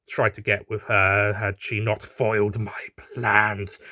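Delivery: slow whispered confession. Acted. Horse admitting a crush, slow whisper. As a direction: whisper it bashfully.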